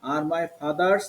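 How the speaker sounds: "father's" with th as দ; teacher's demo, "father's" with a clear দ. Shown as a demonstration. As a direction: model "father's" with a d sound in the middle. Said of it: "এখানে দ".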